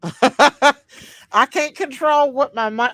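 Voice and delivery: words breaking up with laughter; speaking through real laughter; laughing. Real, not acted.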